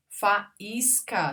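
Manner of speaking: "Faísca" as fa-ís-ca; syllable by syllable. Shown as a demonstration. Teacher showing i followed by S, syllable by syllable. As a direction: pause around "ís" in "Faísca". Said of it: "tem S".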